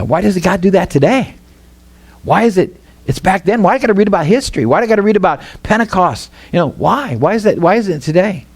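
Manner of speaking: a hint of a grumbling believer who doubts miracles; complaining skeptic. Pastor mimics a doubting Christian, mildly whiny and quick. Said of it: "we could say something like".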